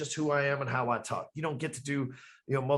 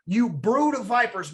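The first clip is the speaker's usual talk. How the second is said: slow, higher and louder scolding; slow raised condemnation of the crowd; angry Jesus rebuke; 5 semitones higher, 6 dB louder, slower than usual. Retold or imitated. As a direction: rebuke them like a furious prophet. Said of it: "and he tells them".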